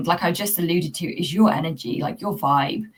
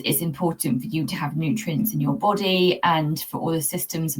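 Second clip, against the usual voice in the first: gentle coaxing to the cat. Shown as a demonstration. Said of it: "speak to Leo and say to him".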